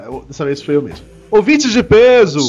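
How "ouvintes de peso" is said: slow, loud show opener called clean; announcer voice. Acted. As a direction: call out the opener steadily. Retakes opener after cracked voice.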